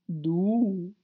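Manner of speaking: scornful, drawn-out caterpillar voice; disdainful one-word jab; contemptuous. A narrator's reading. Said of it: "sagte die Raupe verächtlich".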